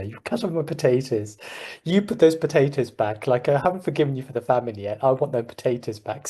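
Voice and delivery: light Irish imitation, scolding; bad Irish accent. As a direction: put on a slight, unconvincing Irish accent. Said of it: "I can't do a very good Irish".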